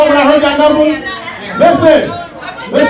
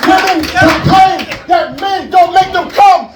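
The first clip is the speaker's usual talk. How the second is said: ranting; 4 semitones higher than usual. Real, not acted. Ranting at the crowd.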